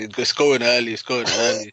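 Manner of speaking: mock Mancunian impression; Manchester accent. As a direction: imitate a Manchester speaker for a laugh. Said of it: "in his old Manchester accent".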